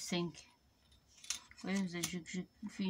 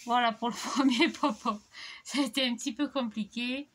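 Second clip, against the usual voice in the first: laughing; 3 semitones higher, 4 dB louder than usual. Real, not acted. Relieved end of hard demo.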